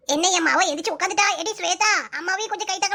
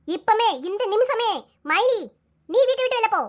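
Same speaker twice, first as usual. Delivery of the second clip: angry counter-order. Acted. Sister-in-law throwing the daughter-in-law out, angry shout. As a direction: hurl the order back at her, punching நீ.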